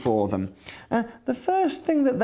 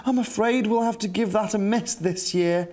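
worried Captain Weezer; 5 semitones higher than usual. Acted. Captain Weezer frets about dangers.

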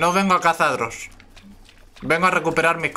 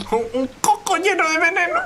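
pitched way up, teasing; high playful voice; 13 semitones higher than usual. Acted. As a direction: squeak it out like a silly idea. Joking about a poison coconut.

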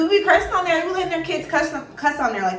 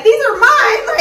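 much higher, louder hammed-up whiny protest; mock upset kid; 15 dB louder than usual. Mom laughingly imitates daughter insisting the shoes are hers, mock wail. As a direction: play the child wailing that they're hers, laughing. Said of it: "So Shy's like".

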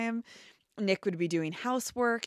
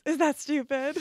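ditzy high question; 7 semitones higher, 5 dB louder than usual. Retold or imitated. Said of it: "And then she goes".

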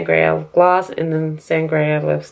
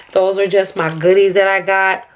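mouth full. Real, not acted. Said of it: "Sorry for eating candy".

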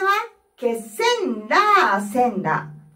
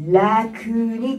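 vocal fry. Shown as a demonstration. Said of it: "の勢いで".

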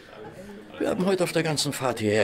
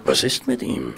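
low whisper; 9 semitones lower than usual. Acted. Watson answers discreetly.

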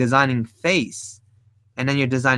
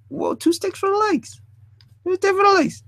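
surprised whoa. Real, not acted. Surprised at his drawing.

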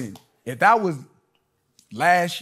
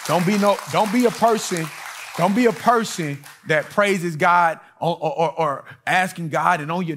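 preaching emphasis; 4 semitones higher, 3 dB louder than usual. Real, not acted. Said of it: "preacher exhorting congregation".

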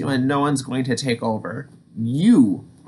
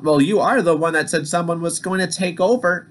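snapped back; 5 semitones higher than usual. Acted. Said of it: "Peter snapped back".

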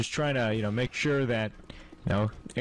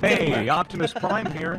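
Optimus Prime. Retold or imitated. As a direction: rumble it like a cheap Transformer. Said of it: "You sound like Optimus Prime".

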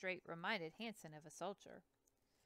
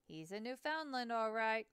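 louder, proud boatman's boast; proud declaration; 4 semitones higher, 8 dB louder than usual. Acted. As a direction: declare it with pride in the dog. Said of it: "Hanson declared proudly".

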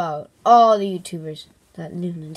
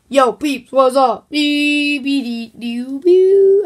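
cool character scat; 4 semitones higher, 5 dB louder, slower than usual. Acted. Character arrives scatting.

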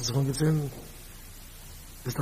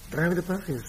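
slightly higher, questioning delivery; acting out the line; 5 semitones higher than usual. Preacher acting out someone twirling payes, slightly higher voice. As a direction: say it higher, in your own voice.

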